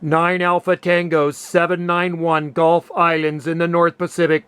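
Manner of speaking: measured ham radio calling voice. Real, not acted. Ham operator calling any Asia Pacific station, radio CQ call. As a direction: call out the callsign evenly over the air.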